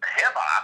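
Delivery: "Hemi" echoed as "hem-ah", ending in ah; puzzled mispronounced echo. Retold or imitated. Caught off guard by the question, echoing "Hemi" as "hem-ah". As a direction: repeat "Hemi" wrongly with an "ah" ending. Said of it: "He kinda caught me off guard".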